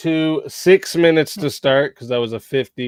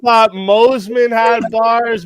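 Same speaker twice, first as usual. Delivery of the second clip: hype announcer; 7 semitones higher, 6 dB louder, slower than usual. Real, not acted. Host hyping the rap battle.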